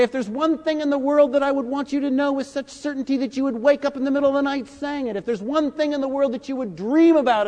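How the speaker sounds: put-on a light take on the old teacher's squeaky voice; high squeaky voice. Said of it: "he had a funny, high, squeaky little voice".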